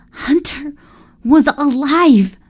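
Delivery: slow wondering delight; elated. A narrator's reading. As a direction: stretch it out in joy. Elated narration.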